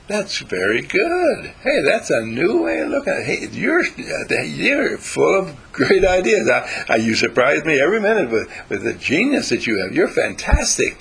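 gushing praise. Retold or imitated. Parent praising child, high and delighted.

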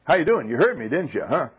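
high, loud, coaxing calls; loud call to dog. Retold or imitated. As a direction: holler at the dog to come. Hollering at the dog.

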